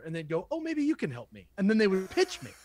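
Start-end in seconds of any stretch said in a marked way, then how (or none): 0.5-1.5 mock caller voice. Caller voiced in retold story.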